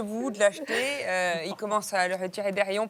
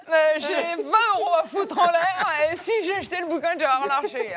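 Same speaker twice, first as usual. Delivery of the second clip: high, loud silly buyer voice; imagined buyer voice; 8 semitones higher, 5 dB louder than usual. Retold or imitated. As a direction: act out a clueless buyer. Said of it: "s'est dit".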